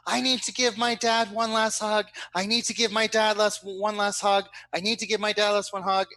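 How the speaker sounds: high, pleading cry to hug her dad; pleading daughter. Retold or imitated. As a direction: beg like a grieving daughter. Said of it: "she starts screaming and she's like".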